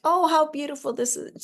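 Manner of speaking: high, swooning delight over a gift; breathless oh of thanks; delighted gasp. Pretend. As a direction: gush over the rose as if it's perfect. Acting out receiving a rose.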